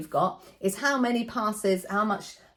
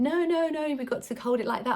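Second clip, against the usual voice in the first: put-on higher childish no-no-no; kids correcting; 6 semitones higher than usual. Entertainer imitating the children correcting her, lightly higher and eager.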